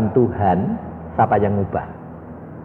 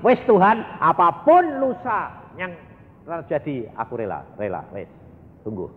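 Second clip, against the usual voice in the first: tearful surrender prayer; 5 semitones higher than usual. Retold or imitated. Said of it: "rela nangis".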